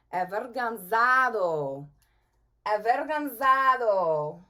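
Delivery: avergonzado said slowly, syllable by syllable; clear model word. Shown as a demonstration. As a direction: model avergonzado for the class to repeat. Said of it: "Say that with me".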